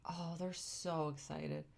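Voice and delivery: hushed, breathless whisper. Real, not acted. Whispering in awe as the chimps come out. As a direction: whisper it in awe, barely voiced.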